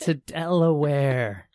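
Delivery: slow, laughing repeat; amused laughing echo. Real, not acted. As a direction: drag it out through a laugh. Laughing at the move.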